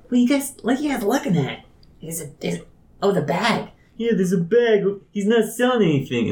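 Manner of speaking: high, nosy onlooker voice; high crowd voice. Acted. Curious passerby asks about the bag, high and nosy.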